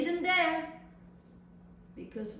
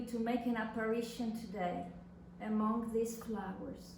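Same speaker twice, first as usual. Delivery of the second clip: reading a love letter. Acted. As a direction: read it like a tender secret letter. Reads lover's letter aloud.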